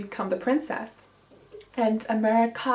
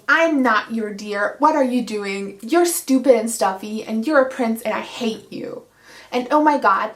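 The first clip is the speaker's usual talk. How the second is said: a bit louder, hammed-up angry outburst; mock angry rant; 3 dB louder than usual. Heroine yells at the prince in the garden, mock angry. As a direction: rant at him like a bratty heroine. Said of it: "she screams at him in his face".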